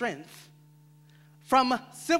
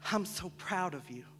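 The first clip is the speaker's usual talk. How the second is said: soft, low, heartfelt approval; tender praise; 4 semitones lower, 9 dB quieter than usual. Acted. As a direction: praise quietly, like a proud parent. Praise the poet longed to hear.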